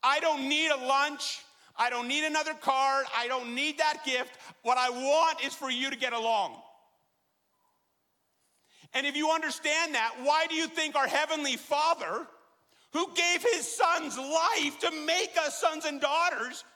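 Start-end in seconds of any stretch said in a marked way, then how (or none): 0.0-10.7 higher and louder, stressing "don't need"; imagine a fed-up mom begging her kids; mother's exasperated loud plea; pleading mother. Pretend. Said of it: "Would you say".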